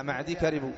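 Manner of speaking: معدي ending on a long ee, straight into كربوا; silent final ya. Shown as a demonstration. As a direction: say معدي with a still, unvowelled ي at the end. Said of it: "سكن الياء". (نطق «معدي» بياء ساكنة)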